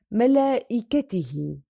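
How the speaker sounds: slow "ملائكته" with a long held aa before the hamza; madd muttasil. Shown as a demonstration. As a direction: stretch the laa in "ملائكته". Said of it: "متصل".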